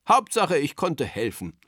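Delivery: cheerful, to himself; good-natured. A narrator's reading. Berti says it to himself, good-natured. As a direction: content despite being forgotten. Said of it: "sagt Berti gutmütig zu sich selbst".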